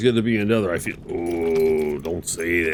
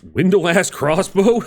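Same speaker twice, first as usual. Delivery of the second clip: slow puzzled reading; 8 semitones higher, 4 dB louder, slower than usual. Real, not acted. Sounding out an item name.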